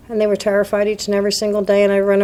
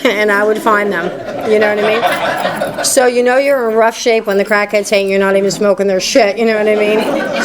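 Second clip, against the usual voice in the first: laughing. Real, not acted. Speaker shares a joke with the room, laughing.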